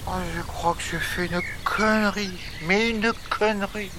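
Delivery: quiet dismay. Acted. Jack regrets his mistake.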